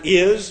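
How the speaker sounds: "is" singled out with emphasis; stressed IS. Shown as a demonstration. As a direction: lean on the word "is". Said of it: "I'm stressing the word is".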